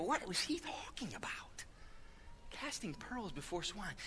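near-whispered self-questioning; puzzled hush. Retold or imitated. Preacher puzzles over a scripture to himself, hushed. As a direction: drop to a very soft, baffled murmur.

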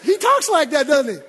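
amused aside to the folks; laughing aside. Real, not acted. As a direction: chuckle it to the crowd.

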